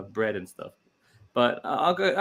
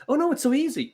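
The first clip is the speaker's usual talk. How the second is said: mocking; 13 semitones higher than usual. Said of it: "Everybody else, like".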